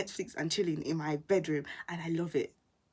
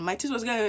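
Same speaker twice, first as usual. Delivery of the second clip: chattering teeth; 8 dB louder, faster than usual. Retold or imitated. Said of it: "I was shivering".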